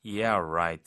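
low, drawn-out sarcasm; skeptical, stretched "right"; sarcastic. Shown as a demonstration. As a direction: drop the pitch and doubt them. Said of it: "말도 안 된다라는 상황에서".

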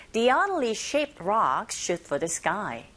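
slow model with "oddly" as AH-dly; teacher slowly models it for practice; slow drill line. Shown as a demonstration. Teacher drills the sentence slowly for listeners to repeat. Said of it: "listening three".

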